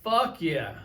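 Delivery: a pumped yes with a different voice; mock celebratory yes; excited cheer. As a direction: cheer it like good news just landed. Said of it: "And you're like".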